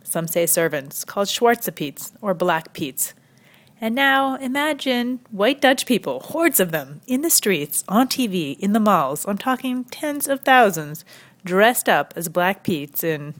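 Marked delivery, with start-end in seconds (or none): 3.8-11.0 high-pitched incredulous list; emphatic build-up. Real, not acted. Comedian urging viewers to picture the crowds, emphatic build-up. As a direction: pile it on, each item popped high.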